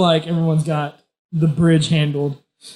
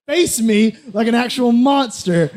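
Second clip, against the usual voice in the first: taunting yell, raised pitch, little extra volume; mock yell; 6 semitones higher than usual. Player taunting the giant bird, mock yell. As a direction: hurl insults up at a monster, drawn-out and higher. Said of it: "I, uh, yell at him".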